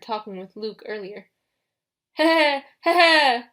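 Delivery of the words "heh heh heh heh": loud, high wheezing heh-heh laugh like an asthmatic fit. A narrator's reading. The bear twin laughs at the captive, loud wheezing cackle. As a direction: cackle in short loud bursts. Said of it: "His brother Oreas laughed".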